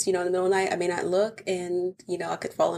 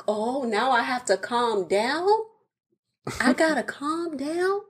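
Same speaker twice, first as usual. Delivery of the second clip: indignant; 4 semitones higher, slower than usual. Retold or imitated. Indignant retort, drawn out.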